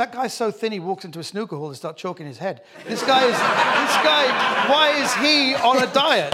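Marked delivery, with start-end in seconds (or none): 2.9-6.3 indignant. Real, not acted. Mock outrage at thin Vardy.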